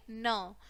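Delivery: न as "nuh", consonant plus short vowel; letter sound demo. Shown as a demonstration. Teacher showing the sound of N, letter sound demo. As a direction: sound out न on its own. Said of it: "क्या बोलेंगे".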